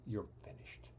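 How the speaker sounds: whispered, gently letting someone go; gentle brush-off. Retold or imitated. Boss gently telling him he's fired, whispered. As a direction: breathe it out softly, a kind dismissal. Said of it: "tell me gently".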